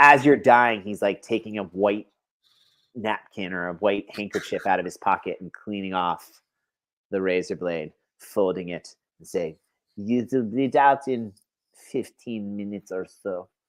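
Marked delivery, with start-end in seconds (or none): 10.0-13.5 put-on Russian accent with French mixed in. Acting out a killer wiping his razor as you die: put-on russian accent. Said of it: "That was Russian".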